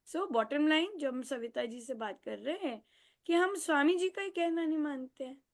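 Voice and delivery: normal talking voice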